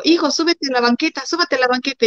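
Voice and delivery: put-on high call telling the kids to step up. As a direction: call out to the children on the street. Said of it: "y le digo". (madre llamando a sus hijos)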